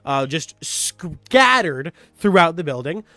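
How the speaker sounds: slow storyteller recap; story recap narration. Acted. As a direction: set the scene like a dungeon master.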